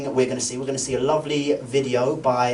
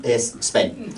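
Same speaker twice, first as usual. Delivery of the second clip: put-on light Spanish accent, "Es Spain" with a rise at the end; a hint of a Spanish speaker, the "Es" drawn out; mock Spanish accent; 3 semitones lower than usual. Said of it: "'cause they go".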